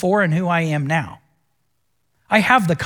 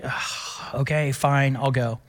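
reluctant sigh; 5 semitones lower, 6 dB quieter, slower than usual. Retold or imitated. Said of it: "I was like".

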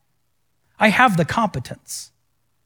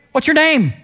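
Jesus asking; 9 semitones higher, 4 dB louder than usual. Retold or imitated. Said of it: "the one question that he asked".

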